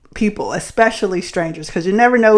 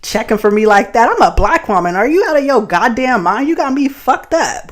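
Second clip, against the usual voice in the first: telling him off; 3 semitones higher than usual. Retold or imitated. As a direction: lecture him he got her wrong. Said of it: "I'm just like".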